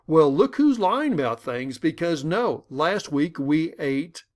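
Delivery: a mock defensive snap. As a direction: throw the accusation back. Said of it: "I could be defensive".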